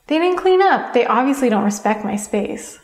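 indignant, take it personally; blaming complaint. Shown as a demonstration. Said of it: "Get out of that loop of".

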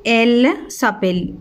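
elle s'appelle drawn out slowly, each syllable clear; slow model answer. Shown as a demonstration. Teacher to pupils, modelling the answer, slow and clear. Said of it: "teacher models answer".

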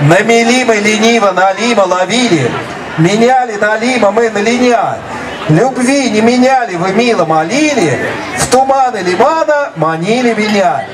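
slow careful tongue twister; said slowly. Shown as a demonstration. Teacher demonstrating a tongue twister slowly first. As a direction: take each word slowly and clearly. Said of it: "I am going to say it slowly first".

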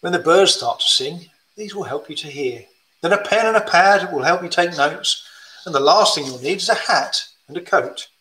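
gentle rhyming storybook read; reading to children. Acted. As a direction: read it like a bedtime picture book. Reads rhyme to children.

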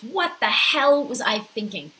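mildly fuming at yourself; frustrated anger. Retold or imitated. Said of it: "I'm so frustrated and angry".

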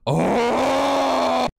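sudden loud mock "Oh!"; mock yelp. Streamer mimics the dreaded outburst, loud mock yelp. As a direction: blurt it out like a startled yelp. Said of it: "I didn't have to hear".

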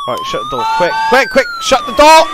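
very high panicked squeal, rising to a shout. Real, not acted. Gamer panicking as monsters get in, frantic high shriek. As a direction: shriek at yourself to shut the door.

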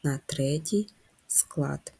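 soft whisper; hushed whisper to the class. Shown as a demonstration. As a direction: drop to a whisper. Whispered stress info.

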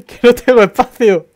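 high loud laughing complaint. Real, not acted. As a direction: blurt it through laughter. Laughing, inventory full.

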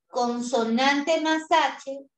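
consonante más H slowly, más pressed; slow emphatic. Shown as a demonstration. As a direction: stress más, slow and clear. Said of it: "teacher stressing rule".

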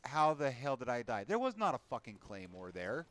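loud, exasperated disbelief at dying; frustrated outburst. Real, not acted. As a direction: gamer yelling at a cheap death. Frustrated gamer after sudden death.

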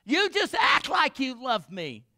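high, loud wailing complaint, half-hammed; a hammed-up tearful wife begging her husband; mock sobbing plea. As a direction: play the weeping bride, pleading and whining. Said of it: "she starts sobbing".

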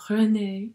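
René said the French way; French pronunciation. Retold or imitated. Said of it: "he was French, and he said my name really cool".

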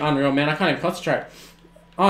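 ordinary talk

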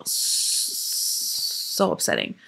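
real upset, almost breaking down; close to tears. Real, not acted. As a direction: let the words die out in real grief. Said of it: "I don't wanna talk about it".

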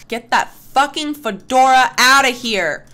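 loud, scornful jab at the hat; mock outrage. Real, not acted. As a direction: shout it like tossing the hat away. Mocking the Sim's fedora.

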